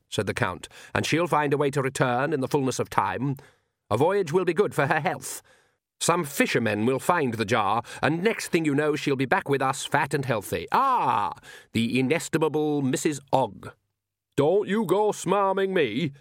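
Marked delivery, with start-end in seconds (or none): 0.9-13.7 lightly voiced smooth Count, lifting to a greeting; a touch of aristocratic villain; urbane vampire Count. Count reassures his son then greets Nanny, with mild urbane menace. 14.4-16.1 put-on indignant old witch, high and slow; snapping. A narrator's reading. Nanny rebuffs the Count's flattery, snapping. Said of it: "snapped Nanny".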